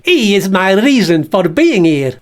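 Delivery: lightly voiced puppet; Bert voice. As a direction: state it as the bag puppet. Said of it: "This is Bert the Bag".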